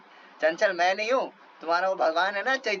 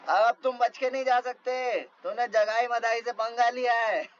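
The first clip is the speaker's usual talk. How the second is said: raised, higher bully's taunt; mock threatening yell; 4 semitones higher than usual. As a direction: threaten them as you chase. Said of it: "ये लोग चिल्लाते रहे".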